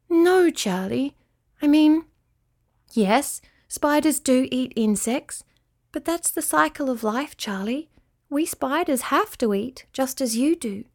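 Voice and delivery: hesitant, reassuring spider teacher; kindly spider Nafila, placating. Acted. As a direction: backtrack gently and explain to a little one. Spider explains the cycle of life.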